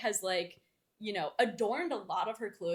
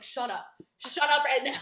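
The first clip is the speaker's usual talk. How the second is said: exasperated; 3 semitones higher, 6 dB louder than usual. Acted. Host telling chattering character off.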